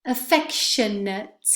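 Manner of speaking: Affectionate with stress on the second syllable, ending weak; careful stress on Affectionate, schwa ending. Shown as a demonstration. Teacher modelling Affectionate for students, stressed clearly. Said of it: "Please note where the stress goes".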